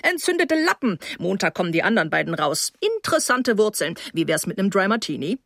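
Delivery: lightly voiced dentist rattling off shop talk; chatty dentist. Dentist apologises to guest after work, lightly voiced chatty host. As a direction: lightly play a dentist just off work, pitch jumping on some phrases.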